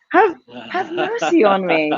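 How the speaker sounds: high, slow, comically desperate plea; begging for mercy. Retold or imitated. Daughter begging her mom at bowling, high mock plea. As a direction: beg like a losing kid at bowling. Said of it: "and she goes".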